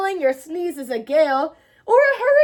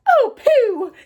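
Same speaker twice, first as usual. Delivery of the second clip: high loud scoffing; dismissive; 8 semitones higher, 7 dB louder than usual. Acted. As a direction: brush it off cheekily. Mouse laughs it off.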